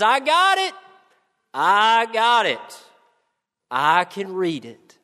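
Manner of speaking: put-on high, bright-eyed child crying out she got it; eager little girl. Little girl telling the class she found the verse, high and eager. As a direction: play the little girl who finally beat everyone to it.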